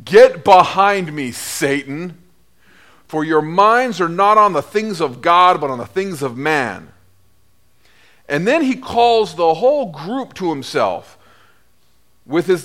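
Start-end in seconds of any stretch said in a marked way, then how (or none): 0.1-6.9 rebuke. Acted. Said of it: "Jesus looks at him and says".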